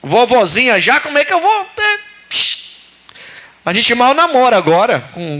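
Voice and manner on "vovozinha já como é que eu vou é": put-on higher, incredulous old wife; a hint of an amused old Sara. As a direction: voice the laughing disbelief of old Sara. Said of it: "a Sara chega a rir".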